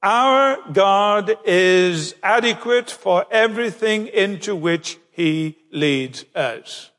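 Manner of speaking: slow, measured delivery for emphasis. Shown as a demonstration. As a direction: spell it out slowly, letting each phrase sink in. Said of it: "let me say that again more slowly".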